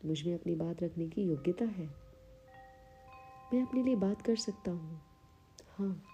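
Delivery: measured affirmation delivery with long pauses; unhurried meditation-guide reading; guided affirmations. Acted. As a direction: state each affirmation calmly, leaving room to repeat it. Leads guided self-esteem affirmations.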